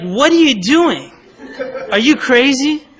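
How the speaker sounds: high-pitched mock indignation; shocked outrage. Crying wife to the man who splashed her, shocked outrage. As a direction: imitate a wife aghast at being splashed. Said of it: "She's like".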